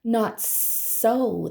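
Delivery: a hint of hissing snake; lightly hissed snake line; mild hiss. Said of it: "the snake hissed".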